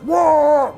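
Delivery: dragon whoosh imitation. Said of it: "the dragon's like".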